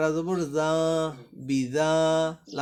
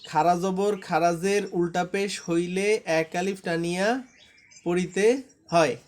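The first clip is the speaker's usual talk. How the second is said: recited rule. Shown as a demonstration. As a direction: recite it for students to repeat. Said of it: "এতটুক আমার মতো করে পড়েন।". (নিয়ম আবৃত্তির সুরে পড়া)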